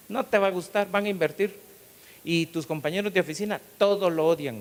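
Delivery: a worried secretary raising her voice; excited secretary. Retold or imitated. Secretary's retold excited reply. (secretaria alarmada, más aguda y más fuerte)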